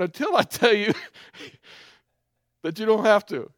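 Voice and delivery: a father's angry order, pitched high and forceful; stern fatherly shout. Retold or imitated. Angry dad answers the kids.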